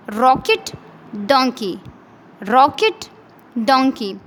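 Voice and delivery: rocket and donkey said with a clear, open o; o sound demo. Shown as a demonstration. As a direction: say each o word twice, slowly and clearly. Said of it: "both of these words have o sound".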